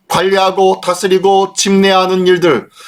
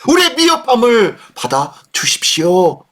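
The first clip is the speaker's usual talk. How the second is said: pleading prayer, acted; 3 semitones higher than usual. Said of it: "라고 하면서 은혜를 구하는 거예요".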